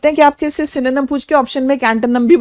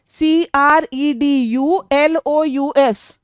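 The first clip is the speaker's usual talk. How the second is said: spelled letter by letter; much slower than usual. Shown as a demonstration. Teacher spells out the word.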